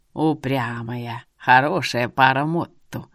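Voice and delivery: put-on very slow, low old man voice; amused old seer. A narrator's reading. Seer teases the stubborn girl, slow low old man.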